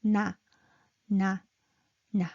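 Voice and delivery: "Na" on a low pitch; low, evenly spaced "na". Shown as a demonstration. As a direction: say each "na" low and separate. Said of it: "Low pitched".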